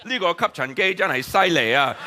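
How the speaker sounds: making up Chinese patter. Retold or imitated. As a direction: rattle off sales patter in Chinese. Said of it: "I just start going".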